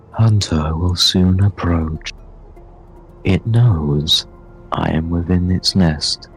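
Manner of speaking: slow, solemn character voice; lightly voiced guide giving a measured warning; warning Navigator figure. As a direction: draw out the warning formally. Game master voices Navigator.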